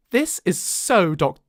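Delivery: put-on posh English accent; lightly posh girl. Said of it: "I made her really posh there".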